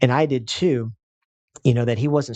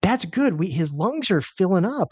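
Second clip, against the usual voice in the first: retold reassurance, pitched up; urgent reassurance; 6 semitones higher than usual. Husband telling wife the screaming is good, eagerly reassuring. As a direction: talk her down with raised, eager pitch.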